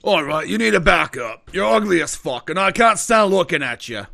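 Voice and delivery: rude dealer, pushing them away; insulting informant. Acted. Informant telling adventurer to back off, rudely disgusted. Game master voices the informant.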